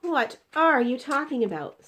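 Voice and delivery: put-on high, loud child's voice; a baffled little girl; puzzled girl. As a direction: Sophie questioning the giant. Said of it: "Sophie said".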